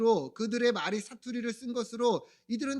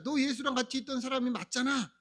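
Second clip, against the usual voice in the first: higher-pitched, insistent mock accusation; cornering accusation; 4 semitones higher than usual. Crowd driving Peter into a corner, pressing accusation. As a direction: drive the accusation home, lightly acted. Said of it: "몰아가는 거야".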